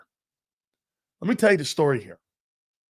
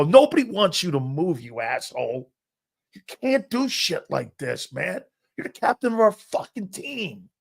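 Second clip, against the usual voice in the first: retold angry scolding of a teammate; so mad; 3 semitones higher than usual. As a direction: act out telling off a friend, exasperated. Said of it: "God, and I was so mad".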